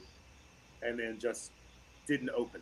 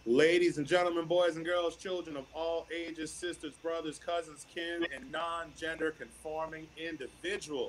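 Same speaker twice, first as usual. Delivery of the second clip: big booming ringmaster opening; 4 dB louder than usual. Acted. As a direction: announce it like a circus ringmaster. Announcing the show's guests.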